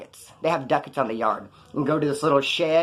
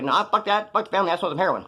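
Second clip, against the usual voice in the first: mock junkie voice; 4 semitones higher, faster than usual. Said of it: "No, I'm clowning".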